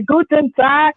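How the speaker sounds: put-on Guten Tag in a weird German accent. Streamer's title read in a weird German accent. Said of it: "I just said this with a very weird accent".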